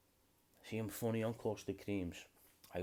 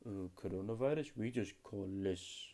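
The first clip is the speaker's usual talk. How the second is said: put-on African accent; 4 dB louder than usual. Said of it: "that was my African accent".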